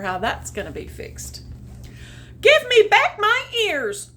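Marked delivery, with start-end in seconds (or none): 2.4-4.1 high, loud barking demand; loud yapping kitten; barked. Acted. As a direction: bark the demand like a dog. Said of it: "barked the kitten".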